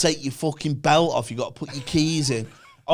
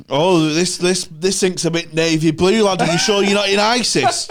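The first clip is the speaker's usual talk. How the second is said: mock official; 4 semitones higher, 4 dB louder than usual. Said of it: "mocking the passport officer".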